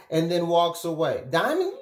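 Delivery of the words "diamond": high, hammed-up sobbing wail; mock crying. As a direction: blubber like the Cowardly Lion, played for comedy. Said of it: "crying like the Cowardly Lion".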